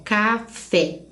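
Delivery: CAFÉ slowly as ca, fé, with a gap; split into syllables. Shown as a demonstration. Teacher letting students hear the division, café split slowly. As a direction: break café into two clear beats, ca and fé. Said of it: "consegue ouvir e a gente diz".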